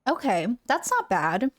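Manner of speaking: slurping a drink while talking; sipping hot tea. Real, not acted. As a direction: talk between sips of hot tea. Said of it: "I'm slurping in your guys' ear".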